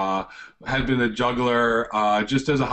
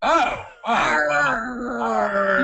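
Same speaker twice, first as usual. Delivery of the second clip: flustered surprise; 10 semitones higher, 3 dB louder, much slower than usual. Real, not acted. Caught out, high cry.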